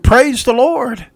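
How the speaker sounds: high, loud, drawn-out proclamation; joyful shout. Retold or imitated. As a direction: shout it slowly from the porch. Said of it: "stood on her porch and shouted".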